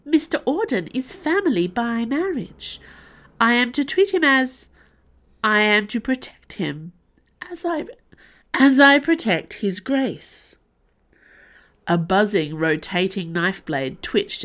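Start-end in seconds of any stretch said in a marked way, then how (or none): 0.1-10.6 high, strained and pleading; a machine torn against its programming; distressed. A narrator's reading. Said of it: "sounding genuinely distressed".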